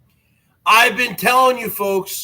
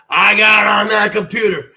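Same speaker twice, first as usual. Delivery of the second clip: louder hype repeat with a falling end; shouted repeat; 3 dB louder than usual. Acted. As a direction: punch it out like a wrestling promo. Second take, shouted.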